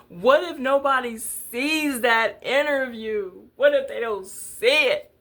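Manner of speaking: put-on high, loud child's worried protest, half laughing; a little girl wailing "what if"; upset child. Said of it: "I remember even coming back with".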